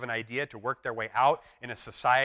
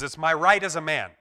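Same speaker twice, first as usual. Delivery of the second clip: higher, louder indignant claim; a touch of comic indignation; lightly voiced Stan; 4 semitones higher, 8 dB louder than usual. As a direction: insist on it, lightly acted. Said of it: "Stan says".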